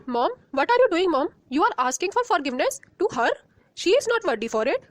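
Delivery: quick indignant outburst at her mother; indignant protest. Acted. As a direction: rattle it off in shock at Mom. Daughter protests mother begging forgiveness.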